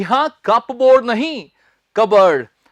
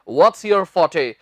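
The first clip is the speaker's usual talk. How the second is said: very slow, spaced words; slow interview question; 4 semitones lower, much slower than usual. Shown as a demonstration. Teacher modelling an interviewer's question. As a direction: ask it slowly and clearly. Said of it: "interviews में पूछ लेते हैं".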